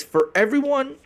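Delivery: reading his post. Retold or imitated. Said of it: "this post says".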